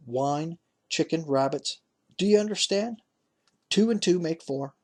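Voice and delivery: a hint of a crafty old father warning his sons; old Zebedee. Zebedee orders adopted sons.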